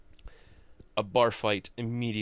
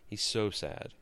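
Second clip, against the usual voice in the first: quiet repeat; 6 dB quieter than usual. Shown as a demonstration.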